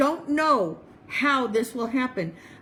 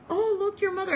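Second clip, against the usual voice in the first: high, bright exclamation; lightly voiced friend's surprise; surprised; 9 semitones higher, faster than usual. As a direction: point and exclaim at the photo.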